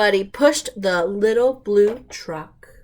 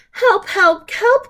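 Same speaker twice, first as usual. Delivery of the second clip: rising, louder calls for help; crying for help; 11 semitones higher, 4 dB louder than usual. Acted. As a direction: call out each help higher, like a stuck little truck. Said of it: "cried the little blue truck".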